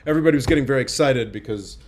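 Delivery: normal talking voice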